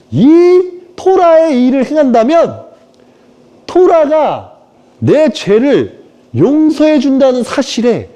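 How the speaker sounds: high, slow impassioned apostle; high slow dramatic confession; acted Paul. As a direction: declaim as the torn apostle. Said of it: "과거 내가 연기한 거".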